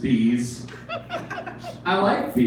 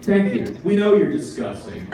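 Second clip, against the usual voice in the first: mocking pigeon; 4 semitones higher than usual. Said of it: "And it's like".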